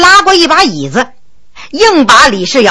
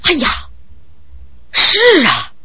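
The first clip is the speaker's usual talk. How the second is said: startled realization; 2 semitones higher, 5 dB quieter than usual. A narrator's reading. Fu Heng sees his plan is flawed, startled. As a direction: let the flaw suddenly dawn on you. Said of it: "不由大吃一惊".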